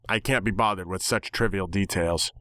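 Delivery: usual speaking voice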